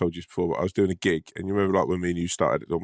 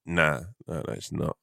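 a flat, let-down mock of the wife, softer at the end; really disappointed; 3 semitones lower, 4 dB quieter than usual. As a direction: deflate it like the wife staring him up and down. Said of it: "Like, really disappointed".

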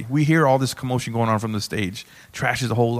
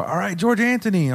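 imitated stage introduction; 8 semitones higher than usual. Host introduces him to stage.

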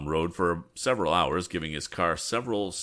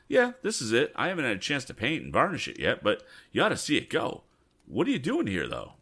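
higher, eager youthful voice, quicker in the middle; proud young Tom; 7 semitones higher than usual. Acted. Tom shows off his car to Ned, high and eager. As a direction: brag about the new car with boyish pride.

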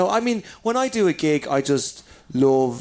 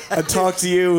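talking through laughter, higher voice; amused; 4 semitones higher, 4 dB louder than usual. Real, not acted. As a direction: crack up at your own joke. Joking about the small gig.

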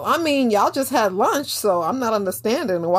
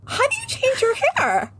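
much higher, put-on clueless voice; mock white person; 14 semitones higher than usual. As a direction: squeak it out like a naive outsider. Imitating white coworkers' question.

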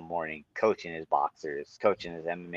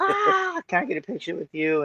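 high-pitched starstruck squeal; squealing fangirl; 13 semitones higher than usual. Retold or imitated. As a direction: gush like a starstruck fan. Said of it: "completely fangirled, screaming".

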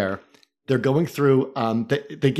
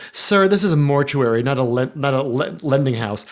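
smarmy mortician. Retold or imitated. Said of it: "said in the same smarmy tone".

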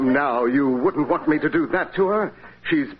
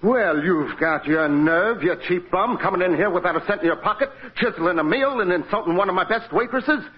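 higher, rising outrage; indignant scolding; 5 semitones higher than usual. Acted. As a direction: chew out the cheap bum. Manager berates penniless customer.

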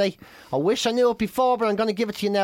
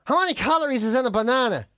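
higher-pitched attempt at an American accent; lightly imitated American accent; 4 semitones higher than usual. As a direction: call out to Siri in a put-on American accent. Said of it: "Do an American accent kind of thing".

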